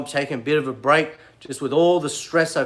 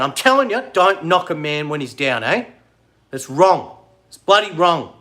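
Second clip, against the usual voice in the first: annoyed scolding; 4 dB louder than usual. Real, not acted. Scolding a commenter.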